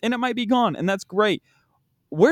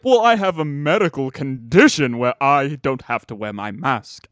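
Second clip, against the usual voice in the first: mock whiny excuse; 4 semitones lower, 4 dB louder than usual. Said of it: "fake notes that people are like".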